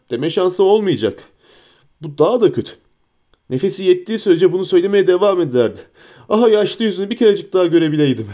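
lightly voiced hobbit, quick and chatty; a hint of a homesick hobbit, hurried; Sam voice. Sam speaks at length.

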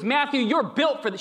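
mock-intense "Matthew, you're built for this."; intense wife. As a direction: fire it at him with conviction. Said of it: "The intensity".

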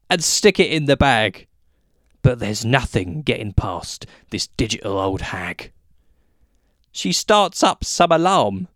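measured comic verse with pauses between lines; poem recitation. Acted. Performing a witty ditty about supermarket checkouts, poem recitation.

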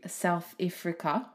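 "South Africa" in an attempted South African accent. Shown as a demonstration. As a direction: put on a South African accent, clipping AFRICA toward "Ifrica". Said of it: "all I can do in a South African accent".

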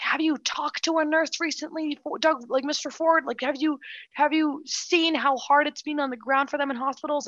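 Mike Schreiner grilling. Retold or imitated. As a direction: press with questions, as if quoting a debater. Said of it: "he was grilling him".

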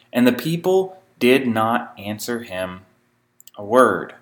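measured, solemn Bible reading; scripture reading. Acted. Preacher reading scripture to his congregation, measured and solemn. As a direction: read the passage aloud to the congregation.

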